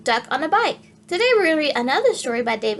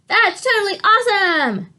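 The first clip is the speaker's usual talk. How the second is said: put-on higher, louder thrilled kid; shouting; 7 semitones higher, 4 dB louder than usual. Little boy sees the duck drive past, excited shout. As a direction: cheer like an amazed boy. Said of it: "Edison shouted".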